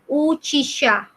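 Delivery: "uchisha" with a long first u; pronunciation demo. Shown as a demonstration. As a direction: stretch the opening of "uchisha". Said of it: "yang ini bacanya".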